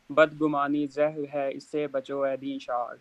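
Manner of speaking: audio dropping out on the call; words fading under a bad line; voice cutting out. Real, not acted. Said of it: "آپ کی آواز کٹ گئی تھی".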